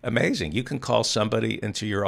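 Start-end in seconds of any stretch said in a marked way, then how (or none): 0.0-0.5 amused disbelief breaking into a laugh. Real, not acted. Host amazed at firing someone for being gay, laughing. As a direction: talk through a brief real laugh. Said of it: "I'm laughing 'cause it's just so".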